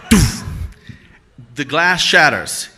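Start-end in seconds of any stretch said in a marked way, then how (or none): 0.1-0.4 shouted high and loud; mock shout. Storyteller reliving smashing the car window, shouting. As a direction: belt it out mid-swing. Reenacting the swing.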